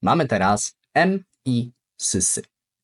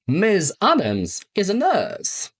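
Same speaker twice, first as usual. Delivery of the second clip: slow model sentence; 8 semitones higher, slower than usual. Shown as a demonstration. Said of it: "Przykłady".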